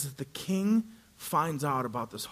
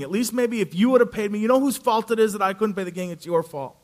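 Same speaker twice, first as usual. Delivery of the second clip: loud, heated rant, pitched up; infuriated; 5 semitones higher, 8 dB louder than usual. Acted. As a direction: blame him loudly and furiously. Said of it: "is infuriated".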